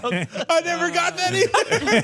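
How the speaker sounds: high, real laughter through the words; laughing. Real, not acted. Realizing the joke to friends, laughing. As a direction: laugh it out, caught off guard.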